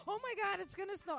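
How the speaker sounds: high, loud pretend panic; exaggerated alarmed outburst; mock freak-out. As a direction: act out a city panicking over nothing. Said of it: "everybody starts freaking out".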